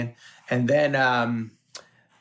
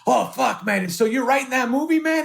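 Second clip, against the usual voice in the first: high-pitched eager outburst; retold excitement; 10 semitones higher than usual. Comedian pestering the director about a new script, excited. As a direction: press him eagerly, voice climbing high. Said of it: "I started getting very excited".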